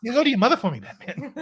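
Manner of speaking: Mark Wahlberg as Bane. Acted. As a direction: play the villain as a friendly actor, cracking up. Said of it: "Mark Wahlberg as Bane".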